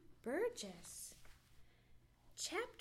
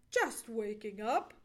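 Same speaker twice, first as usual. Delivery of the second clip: loud, easy answer with a grin; grinning reply; 2 semitones lower, 6 dB louder than usual. Acted. Johnny answering the nosy squirrel, grinning. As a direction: answer cheerfully through a grin. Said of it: "replied Johnny with a grin".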